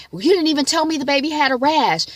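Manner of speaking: upset husband. Retold or imitated. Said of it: "And then he goes".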